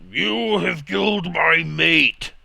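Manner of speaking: slow, high, furious dragon roar; angry dragon yell. Acted. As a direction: yell it out slowly as an enraged white dragon. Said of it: "is yelling out in an angry voice".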